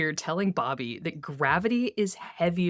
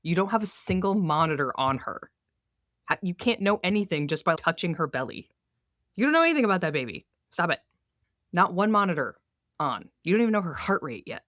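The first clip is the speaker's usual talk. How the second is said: lightly voiced exasperated rant; ranting at Bobby; 3 semitones higher, faster than usual. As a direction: rattle off the complaints in mock outrage. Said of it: "he's like".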